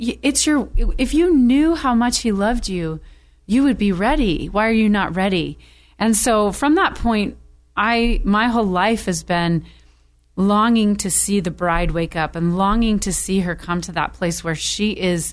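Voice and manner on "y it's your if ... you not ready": play-acted, urgent, frustrated scolding tone. Retelling a dream of finding the unready bride: retelling a yell. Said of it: "yelling at her".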